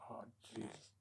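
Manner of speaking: soft, unvoiced dismay; breathless whisper. Doorman touching the blood on his head, in a whisper. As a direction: breathe it out as you feel the blood.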